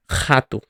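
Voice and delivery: "rato" with a very guttural initial R. Shown as a demonstration. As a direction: rasp the first R of "rato" in the throat. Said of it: "it is very guttural at the beginning".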